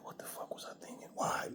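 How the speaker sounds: hushed whisper; mock whispered self-reproach; whispered regret. Friend's regret voiced.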